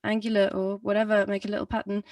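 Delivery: speaking in a little pitch pattern; halfway from monotone to tune; speech on set pitches. Shown as a demonstration. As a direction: step between a few notes while talking. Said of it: "add a couple of more pitches".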